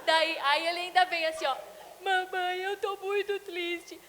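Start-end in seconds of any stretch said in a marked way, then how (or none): 2.0-4.0 put-on high, slow, teary child's voice; mother imitating her son confessing, high and slow; sad little boy. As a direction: plead sadly like a small child.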